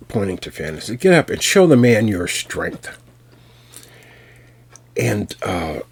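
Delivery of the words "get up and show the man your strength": louder, higher "get up"; sharp command. Acted. Una ordering the disguised baby to rise. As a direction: snap it out like a mother.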